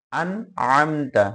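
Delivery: আন আমতা with a distinct n; unhidden nun. Shown as a demonstration. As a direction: clear n closing আন, then আমতা. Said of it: "কোনোভাবে গোপন হবে না".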